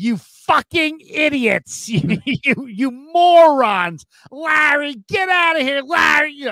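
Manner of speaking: put-on angry woman voice. Quoting a woman yelling at Larry when she's pissed at him, imitating a pissed-off woman. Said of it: "when she's pissed at Larry".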